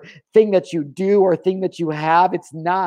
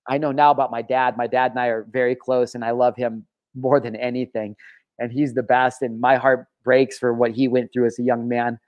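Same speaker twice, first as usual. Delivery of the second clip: low, heartbroken; 6 semitones lower than usual. Real, not acted. Son speaking of his father's regret, low and heartbroken.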